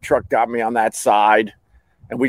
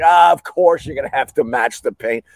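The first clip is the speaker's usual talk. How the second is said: sarcastic echo. Retold or imitated. Customer echoing repairman's added cost, sarcastic. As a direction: parrot it back, utterly unsurprised.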